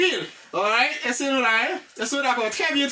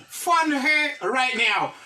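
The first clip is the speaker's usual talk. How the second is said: slow English phrase; slow model sentence; much slower than usual. Shown as a demonstration. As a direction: model it word by word. (fraz la dousman)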